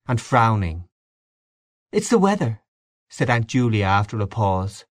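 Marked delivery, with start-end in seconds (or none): 1.9-2.6 high-pitched character voice; older aunt's voice. A narrator's reading. Aunt Julia after an awkward pause, high aunt voice. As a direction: offer it in a raised, separate voice.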